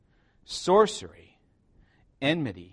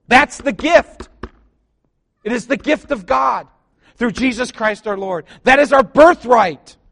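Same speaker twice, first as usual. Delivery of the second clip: higher, louder, slow proclamation; preaching at full force; 7 semitones higher, 10 dB louder than usual. Acted. Preacher proclaiming the gift of God to the church, high and loud.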